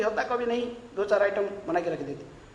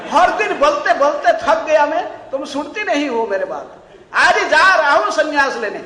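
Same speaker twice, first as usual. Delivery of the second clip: loud, higher, furious; furious threat; 6 semitones higher, 9 dB louder than usual. Retold or imitated. Husband furiously threatening to leave, loud. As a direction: storm at her in rage. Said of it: "उग्रमूर्ति हो गया".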